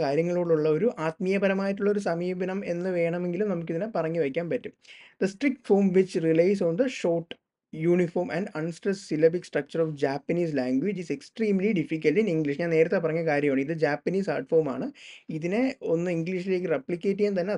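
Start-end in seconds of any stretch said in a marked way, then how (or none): 5.2-12.6 slow dictation. Shown as a demonstration. Reads definition slowly.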